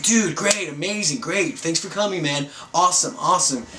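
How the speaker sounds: imitating an enthusiastic dude in his forties; really enthusiastic. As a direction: gush lightly, starting high. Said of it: "this really enthusiastic dude".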